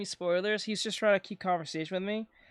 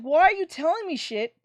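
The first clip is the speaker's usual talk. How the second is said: furious yell at dad; 8 semitones higher than usual. Retold or imitated. Yelling at his dad for watching episodes out of order, mock-furious. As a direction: blow up at him like you can't believe it. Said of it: "I was like".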